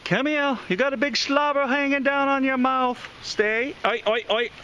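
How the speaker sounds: high, fast doggy voice; pet talk. Real, not acted. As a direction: coax the dog in. Talking to the dog.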